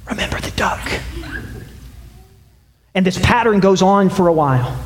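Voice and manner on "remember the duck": soft menacing whisper; a sister's whispered blackmail; threatening whisper. Acted. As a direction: whisper it as a sly warning. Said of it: "she whispered".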